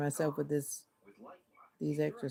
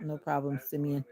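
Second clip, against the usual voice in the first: flat, even monotone greeting; lightly imitated monotone staff voice; monotone cruise worker. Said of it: "I've just learned how to just be monotone".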